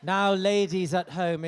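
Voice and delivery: announcer voice. Acted. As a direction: announce it grandly to the viewers. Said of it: "just to explain".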